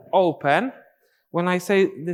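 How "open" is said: loud rising "open"; called step count. Shown as a demonstration. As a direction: call "open" out with a lift at the end.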